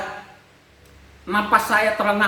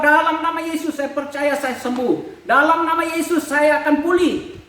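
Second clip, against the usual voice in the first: raised earnest prayer; praying; 5 semitones higher than usual. Retold or imitated. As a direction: declare it with faith, pitched up. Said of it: "Hanya saya berdoa". (doa penuh iman, suara agak tinggi)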